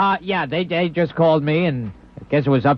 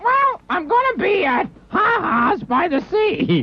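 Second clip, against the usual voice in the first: shouting; 14 semitones higher, slower than usual. Acted. Comic blurts out his plug.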